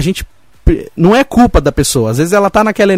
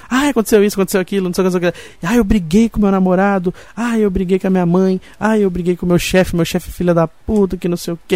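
whiny complaining friend; 3 semitones higher, 4 dB quieter than usual. Retold or imitated. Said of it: "vem essas pessoas reclamam pra gente".

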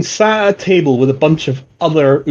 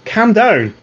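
raised pitch, urging restraint; calling off a friend; 8 semitones higher than usual. Acted. Guard steps in to stop his angry comrade, urgent but controlled. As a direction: call to a mate to back off. Fellow guard calls Albrecht off.

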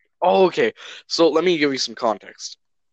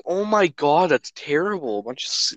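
horrified; 4 semitones higher than usual. Retold or imitated. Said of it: "So I was like".

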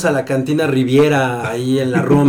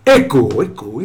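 last word echo; 4 semitones lower than usual. Pretend. Echo effect on brand name.

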